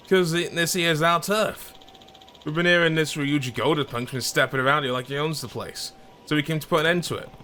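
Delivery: lightly voiced street tough; territorial thug.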